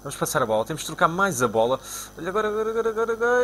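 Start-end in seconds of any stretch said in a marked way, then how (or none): 2.2-3.4 rising, higher and higher urgent agora; pressing urgently as the attack builds; urgent excitement. Real, not acted. Tense attack in the game.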